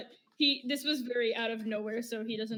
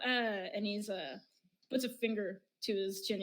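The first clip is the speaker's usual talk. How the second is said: usual speaking voice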